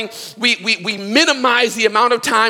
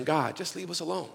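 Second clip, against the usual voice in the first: hushed dismissal; 3 semitones lower, 14 dB quieter than usual. Retold or imitated. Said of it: "where we are saying".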